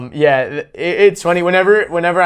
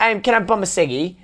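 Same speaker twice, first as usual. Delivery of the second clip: higher, light mock Aussie accent; imitating Australians; 4 semitones higher, 4 dB quieter than usual. Podcaster mimicking an Australian asking for a smoke, light Australian accent. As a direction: ask casually in a put-on Australian voice. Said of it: "they all say ciggies though".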